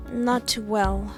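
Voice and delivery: slow, weary, drained. Acted. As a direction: let it sag, out of energy. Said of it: "I speak with a drained tone".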